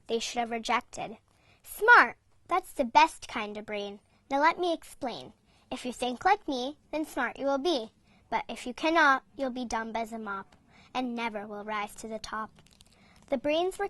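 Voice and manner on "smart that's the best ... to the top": a hint of a boastful bully brain; a mild swaggering boast; bossy brain. Villain brain Complain's boast.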